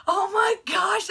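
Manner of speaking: high, loud, drawn-out amazement; overwhelmed squeal. Retold or imitated. Fan retelling her reaction to friends, overwhelmed squeal. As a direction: stretch it out in giddy shock.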